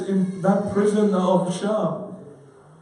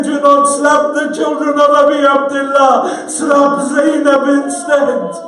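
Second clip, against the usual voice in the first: grieving plea, building louder; mournful recitation; 3 dB louder than usual. Acted. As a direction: tell the father of the journey through grief. Child's lament to her father.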